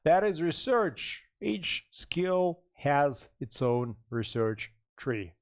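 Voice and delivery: slow, robot voice. Real, not acted. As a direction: talk slowly like a robot. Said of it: "Am I talking like a robot?".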